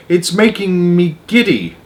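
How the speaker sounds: high, drawn-out complaint; calling out. A narrator's reading. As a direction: plead from a dizzy height. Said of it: "Miss Spider called out".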